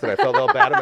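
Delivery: high, laughing through it; barely holding the laugh. Real, not acted. Laughing while retelling.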